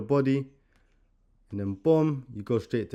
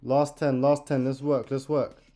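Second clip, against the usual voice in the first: boxing coach calling combos; 3 semitones higher, 5 dB louder, slower than usual. Real, not acted. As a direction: push them through the final ten. Coach calling final seconds.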